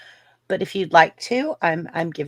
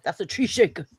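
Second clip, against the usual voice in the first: put-on Australian accent. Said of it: "A Crocodile Hunter, just like where he's like".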